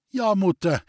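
calling back loudly; loud answer. A narrator's reading. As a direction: answer loud enough for mother. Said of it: "erwiderte Julei laut". (laut zurückrufen)

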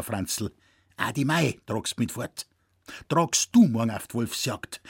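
lightly voiced old man, earnest; handing over a treasured gun with pride; old Zecherl gifting his rifle to Franz; solemn old hunter.

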